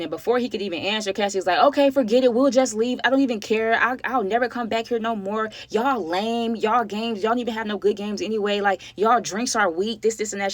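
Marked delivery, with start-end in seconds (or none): 1.6-10.5 going off. Retold or imitated. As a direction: huff and storm off in a mock tantrum. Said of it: "She gets to going off".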